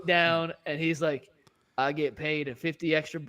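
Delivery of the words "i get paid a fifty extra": light Southern accent, lightly voiced. Imitating the custodian for co-hosts, light Southern accent. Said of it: "I'm doing a Southern accent".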